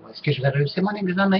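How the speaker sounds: put-on a kid's worried voice; imitating a classmate. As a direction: mimic a nervous kid asking about a test. Classmate asking child for prediction.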